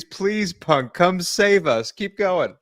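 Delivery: high, pleading mock beg; lightly voiced desperate plea; mock begging. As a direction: plead like a scared crew member. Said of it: "They were begging on their knees".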